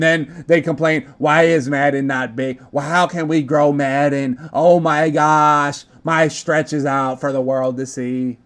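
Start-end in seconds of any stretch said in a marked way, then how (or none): 1.2-8.4 lightly voiced complaining gamers; mildly mock their griping, stretching the exclamations; slightly put-on everybody voice; mock complainers' voice. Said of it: "that's, like, all of y'all voice".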